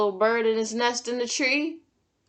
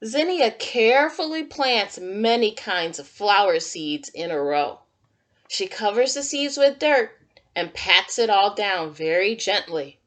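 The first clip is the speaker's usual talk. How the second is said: put-on reading to children; 4 dB louder than usual. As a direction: read it like storytime for little kids. Reads picture book to children.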